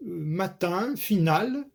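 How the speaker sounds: matin and finale stressed on tin and nal; final-syllable stress. Shown as a demonstration. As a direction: lean on the last sounded syllable of matin, finale. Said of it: "l'accent tonique sera sur tin". (« matin, finale » accentués sur tin et nal)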